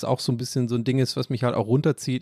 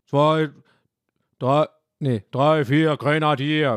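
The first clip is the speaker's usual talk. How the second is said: a hint of a gruff character voice; put-on voice; 3 dB louder, slower than usual. Counting rhyme in a lightly voiced character.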